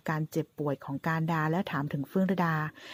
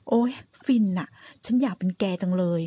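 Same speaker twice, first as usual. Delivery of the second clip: dreamy swooning tease; 2 semitones higher, 5 dB louder than usual. Acted. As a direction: melt on each word as a playful tease. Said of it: "การดาทำท่าเคลิ้มล้อๆ".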